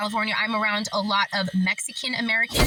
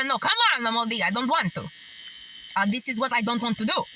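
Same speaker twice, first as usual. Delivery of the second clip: put-on Greek grandmother accent; faster than usual. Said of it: "I started to do her accent".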